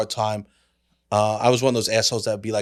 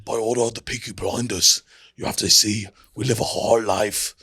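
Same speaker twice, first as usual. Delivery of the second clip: Peaky Blinders impression; 3 semitones lower than usual. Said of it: "I could only do the Peaky Blinders".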